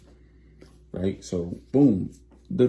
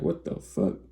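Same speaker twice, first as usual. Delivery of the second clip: shocked whisper; 8 semitones higher, 5 dB quieter than usual. Retold or imitated. Woman shocked at lover's news.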